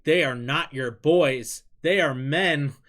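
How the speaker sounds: a hint of fans scolding him; mock scolding fans. Streamer imitating angry fans correcting him, mock indignant. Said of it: "And they're like".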